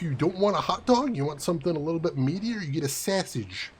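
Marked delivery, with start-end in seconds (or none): 2.6-3.7 Chicago-accented "sausage" with a flattened first vowel like "sassage". Shown as a demonstration. Streamer giving Chicago accent tips, Chicago accent. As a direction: say it like a Chicago local. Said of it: "to do a Chicago accent".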